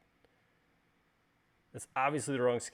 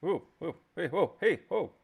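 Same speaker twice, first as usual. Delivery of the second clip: soothing a horse; 5 semitones higher, 8 dB louder than usual. Pretend. Model spins, calms it like horse.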